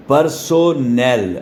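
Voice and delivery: "پرسونل" very slowly as par, so, nel; regional syllable split. Shown as a demonstration. Teacher showing how some regions say it, "پرسونل" slowly split. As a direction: give "پرسونل" a full so in three separate beats. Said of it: "لوگ اس طرح بولتے ہیں".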